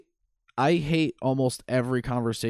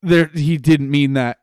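Ignatz voice; 6 dB louder than usual. Retold or imitated. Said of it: "And then Ignorance is like".

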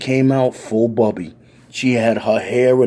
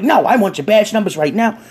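high, loud, furious granny rant; old lady tirade; 10 semitones higher, 4 dB louder than usual. Retold or imitated. Elderly woman berates racist cops, high furious granny voice. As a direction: let the old lady rip into him.

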